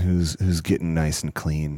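sultry. Pretend. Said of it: "that sounds so dirty".

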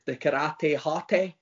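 karate hottie in a Glaswegian accent; Scottish accent. Shown as a demonstration. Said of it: "hard to say that in a Scottish accent".

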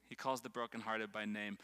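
low, soft repeat of "He calls the brokenhearted by name". Shown as a demonstration. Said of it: "Write this down".

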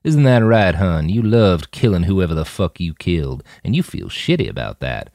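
lightly voiced goading Jim; taunting provocateur. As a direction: needle him with a sneer.

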